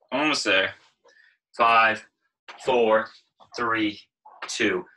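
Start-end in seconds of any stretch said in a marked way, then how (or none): 1.6-4.8 loud countdown. Real, not acted. Calling out countdown.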